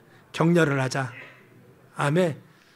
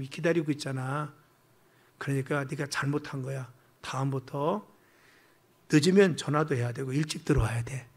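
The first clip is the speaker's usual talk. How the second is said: soft, lower parental reassurance; caring parent voice; 4 semitones lower, 3 dB quieter than usual. Retold or imitated. Father gently telling late child he worried, tender. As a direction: speak worried but gentle. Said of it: "이런 표현입니다".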